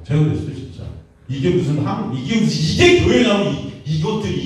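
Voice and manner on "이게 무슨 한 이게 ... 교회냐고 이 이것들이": retold shout. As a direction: climb into the yell on 교회냐고. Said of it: "제가 소리쳤어요".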